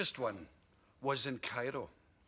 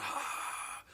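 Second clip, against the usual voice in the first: deflated announcer; 13 semitones higher, much slower than usual. Retold or imitated. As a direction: drag out the anticlimax. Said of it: "He was the announcer".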